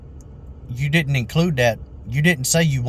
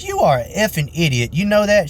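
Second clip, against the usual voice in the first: higher-pitched imitation of an insulting customer; mock outrage; 5 semitones higher than usual. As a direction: mimic a customer telling someone off, mildly heated.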